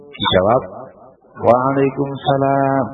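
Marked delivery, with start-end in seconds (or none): 1.5-2.9 slow, kindly returned greeting; friendly reply. Shown as a demonstration. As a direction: answer the greeting gently. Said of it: "dengan intonasi yang bersahabat".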